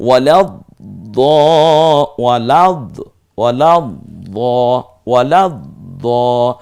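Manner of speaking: loud drill of a Quranic word; loud demo. Shown as a demonstration. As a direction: call out each syllable for the class. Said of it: "ওই যে আট অক্ষরের এক অক্ষর দ".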